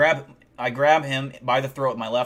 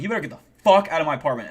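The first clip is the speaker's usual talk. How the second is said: fast retold order, a bit louder; retold yelling; 3 semitones higher, 5 dB louder, faster than usual. Ordering the intruder out, fast mock yell. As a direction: rattle off a firm mock yell. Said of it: "I'm yelling at this point".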